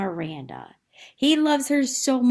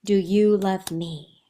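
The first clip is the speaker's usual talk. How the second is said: tender line; 2 semitones lower, slower than usual. Acted. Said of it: "kind of beautiful there".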